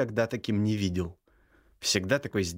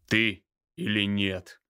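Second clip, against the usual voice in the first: barked with disgust; slower than usual. A narrator's reading. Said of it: "гаркнул Михаил с отвращением".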